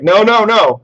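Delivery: loud, high retold protest; acted-out urgent "no"; emphatic objection. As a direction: jump in to overrule them, loudly. Acts out waving off the staff.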